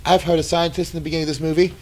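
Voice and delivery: high, loud hammed-up prophet voice; mock doomsday prophet. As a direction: play the crying doom prophet for laughs.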